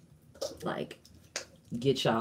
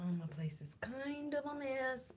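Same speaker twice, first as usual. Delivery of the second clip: whispering; 10 semitones higher, 15 dB quieter than usual. Real, not acted. Whispered aside at stream start.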